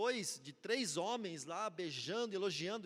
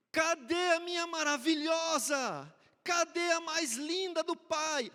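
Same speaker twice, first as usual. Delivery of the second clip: put-on high, slow baby-talk dad voice; silly dad voice; 9 semitones higher, 9 dB louder, slower than usual. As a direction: coo it like a doting father. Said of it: "eu fazia aquela voz assim".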